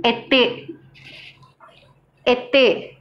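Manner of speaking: été said softly and slowly in French; été, both vowels closed like ay; careful teacher demo of été; French word demo. Shown as a demonstration. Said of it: "For example".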